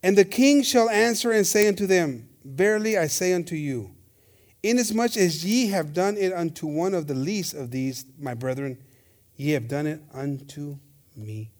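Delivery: measured, formal Bible recital; scripture reading. Real, not acted. Preacher reading the king's words to church, formal scripture reading. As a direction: read the verse out deliberately, pausing between phrases.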